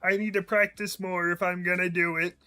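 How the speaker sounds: a light Kermit the Frog imitation; a hint of Kermit the Frog; half-hearted Kermit impression. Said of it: "I don't think I'm getting a whole song out as Kermit".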